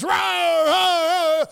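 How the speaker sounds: loud, high locker-room chant; cheering. Retold or imitated. Seniors cheering a big win, loud high chant.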